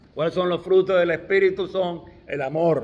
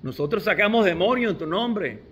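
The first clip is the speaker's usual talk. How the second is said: raised, louder pleading plea; pleading disciples; 4 semitones higher, 3 dB louder than usual. Retold or imitated. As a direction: beg the Lord, insisting on what they did. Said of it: "él dice".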